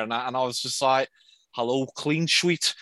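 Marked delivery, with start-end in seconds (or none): 1.6-2.7 slow, lightly put-on Liverpool accent. Pretending to be a colleague on the phone, slow Liverpool accent. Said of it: "pick it up and pretend to be him".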